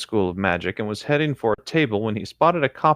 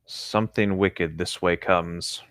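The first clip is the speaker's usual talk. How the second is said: ominous quote; 4 semitones lower, 5 dB quieter, slower than usual. Acted. Quoting a famous line.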